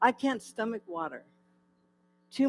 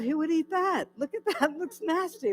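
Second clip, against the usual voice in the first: higher, hammed-up revulsion; mock disgust; 7 semitones higher than usual. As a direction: sneer at the food, playfully. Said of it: "And I thought".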